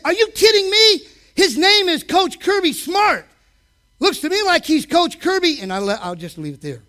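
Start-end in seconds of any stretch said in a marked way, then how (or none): 0.0-5.6 indignant dad. Retold or imitated. Dad answering his son, mock-outraged shout. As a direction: scoff at your son's question. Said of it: "And I said".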